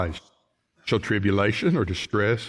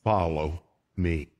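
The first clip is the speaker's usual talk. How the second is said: slow gentle call; 5 semitones lower, 4 dB quieter than usual. Shown as a demonstration. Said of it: "we see that word".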